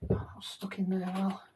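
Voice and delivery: breathing hard while working; strained, breathy effort; heavy breathing. Real, not acted. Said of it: "heavy breathing".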